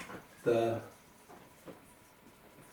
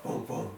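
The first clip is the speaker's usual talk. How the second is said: pumping heartbeat; 3 semitones lower, 8 dB quieter than usual. Shown as a demonstration. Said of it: "It's a pump".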